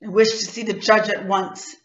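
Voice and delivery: husky voice. Acted. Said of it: "in a rather husky voice".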